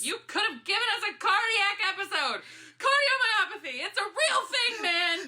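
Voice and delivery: high, fast, breathless laughing panic; half laugh, half shriek at them; giddy frightened scolding; shaken laughing. Acted. Shaken after the scare, half laughing.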